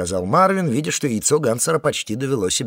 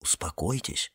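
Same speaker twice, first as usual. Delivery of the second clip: soft request; 6 semitones lower, 10 dB quieter than usual. A narrator's reading. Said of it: "попросил Марвин".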